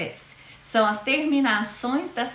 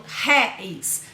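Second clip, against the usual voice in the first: "réis" with the E stronger than the gliding I; "réis" as one syllable, weight on E; stress on the E. Shown as a demonstration. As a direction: lean on the E in "réis", keep the I light. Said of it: "pronuncio com maior intensidade".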